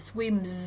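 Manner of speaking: "swims" with the final s buzzed as z; voiced ending. Shown as a demonstration. Teacher applying the same m rule, "swims" ending in voiced z. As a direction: hum the m of "swims" on into a z. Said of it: "ม sound ก็เหมือนกัน".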